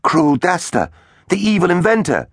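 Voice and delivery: high, dismayed hero; naming his old enemy. A narrator's reading. Teggs' voice.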